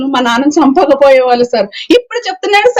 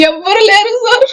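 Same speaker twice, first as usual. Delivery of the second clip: real sob through the words; crying; 7 semitones higher than usual. Real, not acted. Daughter telling reporter she has nobody, crying. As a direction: voice breaking into tears, higher. Victim breaks down telling losses.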